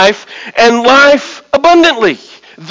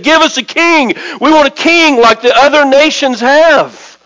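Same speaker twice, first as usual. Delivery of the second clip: higher-pitched insistent demand; clamor for it like a demanding people; clamoring crowd; 4 semitones higher than usual. Acted. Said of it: "they clamored for a king".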